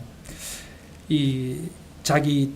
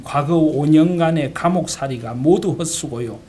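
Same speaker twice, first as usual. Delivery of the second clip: voiced father pressing his case, louder; father's earnest exhortation; 6 dB louder than usual. Pastor father persuading his daughter to forgive the killer, earnest exhortation. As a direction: plead firmly as a pastor reasoning with his child. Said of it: "손양원 목사님이 동희에게 이렇게 이야기합니다".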